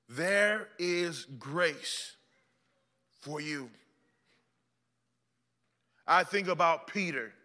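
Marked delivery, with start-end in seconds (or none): 0.1-3.7 very slow, drawn out, gentle; slow tender repeat. Acted. Repeated slowly, softer.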